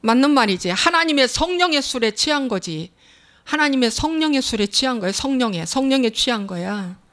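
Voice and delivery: ordinary talk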